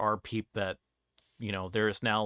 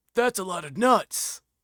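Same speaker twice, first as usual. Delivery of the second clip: shrill, loud yell, pitched way up; 10 semitones higher, 7 dB louder than usual. Describing a character she likes in the posts, imitating him yelling. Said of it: "he just yells like".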